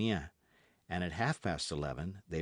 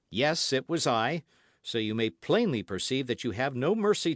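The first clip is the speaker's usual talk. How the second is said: loud, higher nervous telling; trembling innkeeper; 5 semitones higher, 6 dB louder than usual. A narrator's reading. Trembling host explaining himself, nervous and raised. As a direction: explain anxiously.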